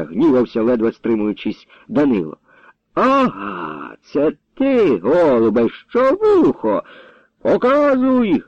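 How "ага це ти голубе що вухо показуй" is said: high angry bark, slowed on the threat. A narrator's reading. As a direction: snarl the demand to show it. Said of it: "гаркнув так".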